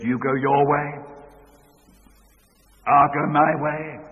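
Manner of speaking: a hint of the furious husband; mild retold anger. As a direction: lay down the ultimatum hotly. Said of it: "he was infuriated".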